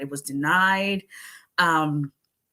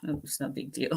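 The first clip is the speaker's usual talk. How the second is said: son's shrug; 3 semitones lower, 10 dB quieter, faster than usual. Retold or imitated. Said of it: "The kid was like".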